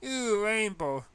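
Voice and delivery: high, loud, slow disgusted shriek; a drawn-out high ew of revulsion. Acted. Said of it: "she shrieked".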